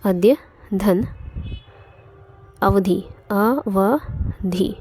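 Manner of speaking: very slow, drawn-out split of अद्य धन अवधि, अवधि; slow dictation. Shown as a demonstration. Teacher to students splitting the word, very slow dictation. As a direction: spell out each part of अद्य धन अवधि, अवधि slowly for students. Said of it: "संधि विच्छेद करें तो क्या हो जाएगा".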